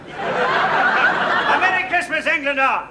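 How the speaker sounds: hint of a German accent; lightly voiced German soldier. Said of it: "the little Johnny cried".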